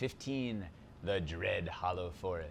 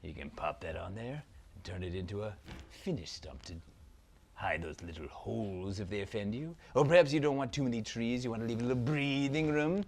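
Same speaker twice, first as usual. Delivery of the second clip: dark lord; faster than usual. Acted. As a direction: savour every word like an evil prince. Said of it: "Zaltar, Prince of Phantasm".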